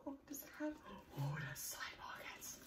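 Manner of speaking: soft whisper of discovery; delighted whisper. Real, not acted. Finding side pockets, whispering with delight. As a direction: whisper it like a secret find.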